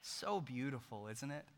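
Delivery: mock gushing. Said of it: "we're like".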